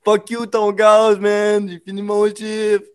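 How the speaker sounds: high, loud, slow fuck-off; mock angry yell. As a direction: throw it back like an angry worker. Acting angry customer retort.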